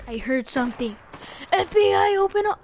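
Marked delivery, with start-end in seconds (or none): 1.5-2.6 higher, louder hammed-up police shout; mock FBI raid. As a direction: bang on the door like a cop.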